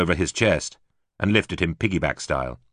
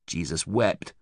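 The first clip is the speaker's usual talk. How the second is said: muttered; 5 dB quieter, slower than usual. A narrator's reading. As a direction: mutter it to yourself, hurting. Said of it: "she muttered".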